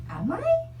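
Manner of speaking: suddenly unsure of herself, half-hammed; self-doubting. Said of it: "I started doubting myself".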